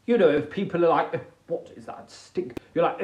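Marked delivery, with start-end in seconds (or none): 1.1-2.6 hushed, low mock disgust; hushed disgusted question; mock disgusted sniff. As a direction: whisper it like you're offended by a smell. Mock disgusted friend in bit.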